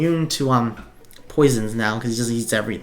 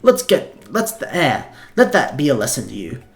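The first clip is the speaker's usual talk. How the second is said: a tired tiny dog calling class to order, pitched up; dog professor voice. Acted. Sprinkles apologizing.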